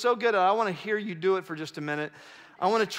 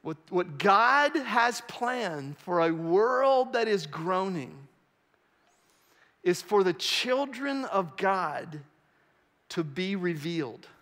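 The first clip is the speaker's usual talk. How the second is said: solemn slow; 2 semitones lower, slower than usual. Real, not acted. Slow solemn key line.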